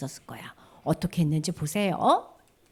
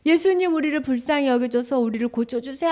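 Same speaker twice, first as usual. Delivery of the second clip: ordinary delivery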